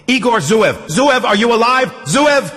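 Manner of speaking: loud, desperate high shout; full-voiced searching yell; roaring. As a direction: bellow the name to find him. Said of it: "Artyom roared".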